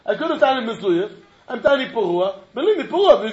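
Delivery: pleading litigant. Acted. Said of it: "I said".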